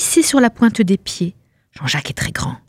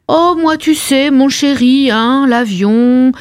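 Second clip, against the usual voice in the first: mock weary refusal. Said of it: "Je lui ai dit".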